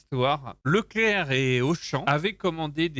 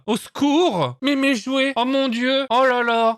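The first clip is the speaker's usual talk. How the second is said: high, loud hammed-up panic; bad acting; 9 semitones higher, 3 dB louder than usual. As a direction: overact a panicked Santa. Mocking the VHS Santa's panic.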